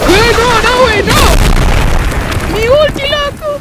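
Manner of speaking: pánico agudo. Real, not acted. Panic as his ulti is lost.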